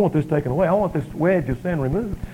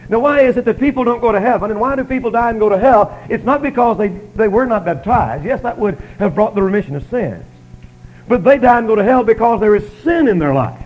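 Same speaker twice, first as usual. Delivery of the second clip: raised, louder preaching voice; emphatic preaching; 5 semitones higher, 6 dB louder than usual. Real, not acted. Preacher to congregation on why people are lost, emphatic preaching. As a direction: press the point home on the congregation.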